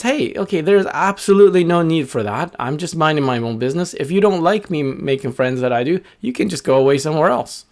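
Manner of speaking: high, firm little bird; defiant little bird. Acted. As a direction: stand your ground, high and firm. Little bird stands ground.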